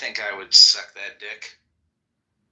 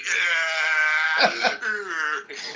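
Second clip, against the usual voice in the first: demon screech; 6 semitones higher than usual. Retold or imitated. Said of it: "the Satan demon".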